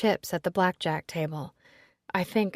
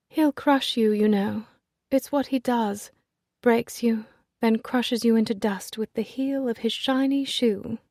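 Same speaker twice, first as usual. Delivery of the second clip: gentle menace; 4 semitones higher, 3 dB louder than usual. Acted. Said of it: "the way she says it ... Gently, and smiling".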